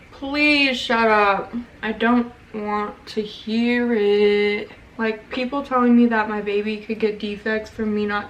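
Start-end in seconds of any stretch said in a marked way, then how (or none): 0.1-4.7 slow, fed-up dismissal; exasperated. Real, not acted. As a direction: drag it out, done with them. Ranting at commenters.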